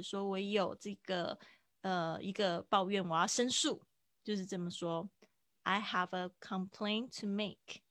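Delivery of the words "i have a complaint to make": slow demo. Shown as a demonstration. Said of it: "再听一次".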